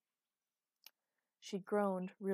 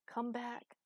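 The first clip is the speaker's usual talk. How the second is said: higher, strained call into emptiness; desperate call; 5 semitones higher than usual. A narrator's reading. She calls Idas back from the darkness, desperate. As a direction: call out desperately without shouting. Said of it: "heartbroken scream of terror".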